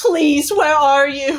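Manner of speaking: frantic, pleading, high and loud panicked voice. Calling an ally over a message in character: panicked plea. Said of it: "in a panic".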